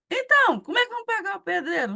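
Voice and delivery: a nervous cousin asks how the builder gets paid; anxious question. Retold or imitated.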